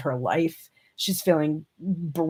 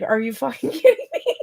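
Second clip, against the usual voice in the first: laughing through the question, a touch higher; laughing disbelief; 4 semitones higher than usual. Retold or imitated. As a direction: crack up mid-line in mock outrage. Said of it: "Divine Feminine is like".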